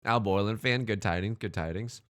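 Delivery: ordinary talk, nothing marked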